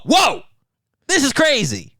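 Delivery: high-pitched, stretched whoa of wonder; amazed whoa. Retold or imitated. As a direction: replay the stoned amazement, pitch jumping up. Retelling getting high, amazed.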